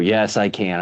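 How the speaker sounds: a flat, unconvinced "Yes, I can" with no push behind it; half-hearted. Retold or imitated. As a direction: say it like a kid who doesn't believe it yet. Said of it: "And he'll go".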